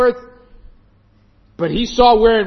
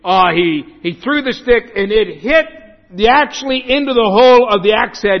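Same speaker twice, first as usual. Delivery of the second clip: mocking commentators; 5 dB louder than usual. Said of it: "liberal commentaries say".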